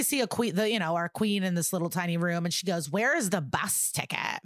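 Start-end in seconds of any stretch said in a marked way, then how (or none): 2.9-4.4 lightly imitated entitled demand; a touch of haughty impatience. Podcaster voices the demanding queen in her tiny room, mildly entitled. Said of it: "Very entitled".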